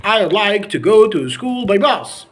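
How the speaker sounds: American-style merged "I'd like to"; American accent. Shown as a demonstration. Teacher contrasting with normal speech, American accent. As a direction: say it American, "I'd" as one syllable. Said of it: "in the American accent, they can say".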